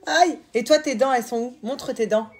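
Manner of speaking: loud, high playful teasing. Real, not acted. Mother playing teeth game with baby, loud and playful. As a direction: get a giggle out of her.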